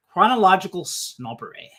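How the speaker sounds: British accent, lightly put on; British accent with a touch of relish. Shown as a demonstration. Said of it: "say that with a British accent".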